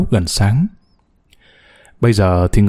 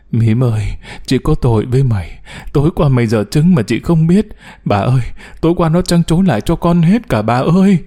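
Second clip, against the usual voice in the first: ấm ức. Acted. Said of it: "Gốm ôm con ấm ức".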